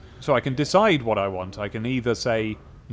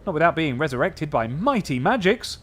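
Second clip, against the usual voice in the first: sneering; 4 semitones higher, 3 dB louder than usual. Acted. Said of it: "then sneers".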